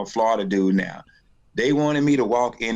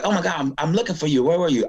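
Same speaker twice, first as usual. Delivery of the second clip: frantic manager; 6 semitones higher, faster than usual. Retold or imitated. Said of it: "the manager's like".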